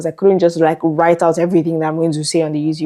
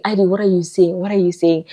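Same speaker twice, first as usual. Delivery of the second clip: flustered self-talk; 2 semitones higher than usual. Retold or imitated. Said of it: "I'll just be like".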